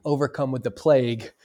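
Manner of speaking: rough, sick voice, coming out of illness; hoarse voice. Real, not acted. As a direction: voice crackling from the flu. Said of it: "if you hear my voice crackle".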